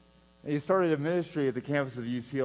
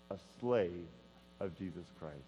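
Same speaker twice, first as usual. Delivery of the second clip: weak voice; 6 semitones lower, 7 dB quieter than usual. Retold or imitated. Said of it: "in his very weak voice".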